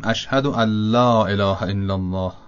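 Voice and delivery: slow, "ان لا" merged into a doubled l; assimilated n. Shown as a demonstration. Teacher showing idgham in the tashahhud. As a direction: say "ان لا" as "اَلّا", nun dropped, lam doubled. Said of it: "لام رو با تشدید بخوانیم".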